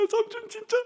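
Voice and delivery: put-on high, slow pleading child with a laugh; a hurt kid half-laughing in disbelief; upset child's question. Boy asks his favourite uncle, high, slow and pleading.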